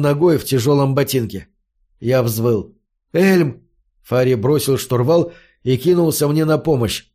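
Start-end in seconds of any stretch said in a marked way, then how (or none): 3.1-3.6 calling out. Acted. Fari calls out to stop.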